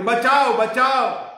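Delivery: put-on girl's loud high cry for help from the bushes. Girl in the bushes crying out for help, loud and high. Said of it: "બીજી વાર બૂમ પડી".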